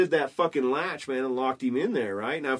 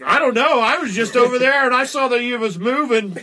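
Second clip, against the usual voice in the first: fake innocent kid; 9 semitones higher, 8 dB louder than usual. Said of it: "And I was like".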